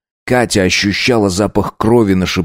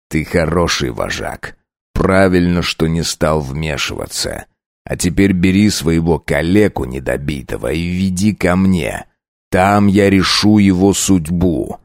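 cool commanding vampire; 2 semitones lower than usual. Acted. Count addresses pack leader.

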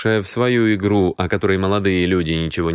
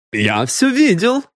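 high, drawn-out exclamation; emphatic witness; 12 semitones higher than usual. Acted. Admirer backs up мисс Киан as witness, emphatic. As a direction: declare it high and slowly.

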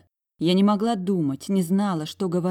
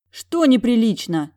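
higher, louder indignant snap; 6 semitones higher, 8 dB louder than usual. A narrator's reading. Heroine outraged at the general's remark, indignant. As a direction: bristle with outrage. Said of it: "возмутилась".

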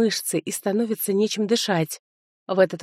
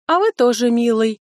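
a purred flirt, higher and louder; purring; 5 semitones higher, 5 dB louder than usual. A narrator's reading. Cousin flirts with the teacher, purring. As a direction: purr it like a flirting cat. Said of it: "промурлыкала кузина".

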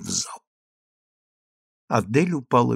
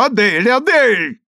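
drawn-out loud call, pitched higher and slow; rough calling out; 10 semitones higher, 5 dB louder than usual. Acted. Consul calls his wife from afar, slow loud call. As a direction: bellow her name slowly from the next room. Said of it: "грубый голос консула".

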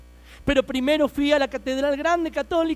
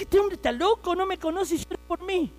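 astonished disbelief; 7 semitones higher than usual. Retold or imitated. Retold disbelief at crying pastor.

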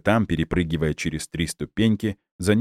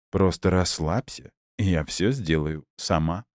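cooing. Acted. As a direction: coo it soothingly. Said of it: "проворковала Люба".

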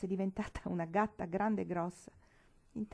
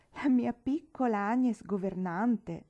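exclaiming; 4 semitones higher, 5 dB louder, slower than usual. Acted. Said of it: "esclamò".

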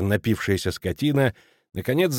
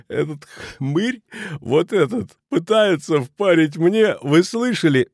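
laughing; 7 semitones higher, slower than usual. A narrator's reading. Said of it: "всё ещё задыхаясь от смеха".

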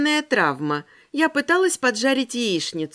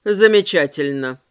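through gritted teeth; 7 semitones lower, 4 dB louder than usual. Acted. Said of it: "процедил Рамирес".

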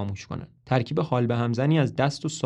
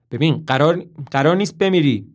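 loud, pressing reassurance; Toby pleading with the dying mother, loud; urgent reassurance; 2 semitones higher, 8 dB louder than usual. Acted. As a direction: insist she will not die. Dying woman on the phone.

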